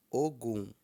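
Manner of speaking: "Ogum" stepping from low O up to high gum; low-high Yoruba tones. Shown as a demonstration. Teacher gives students the word for August, low-high tones. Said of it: "O é baixo e Gun é alto".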